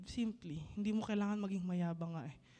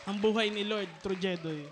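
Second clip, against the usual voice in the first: announcing loudly for applause; rising up to call out; calling out to the crowd; 7 dB louder than usual. Real, not acted. Host calls for applause. (malakas na pagtawag sa palakpakan)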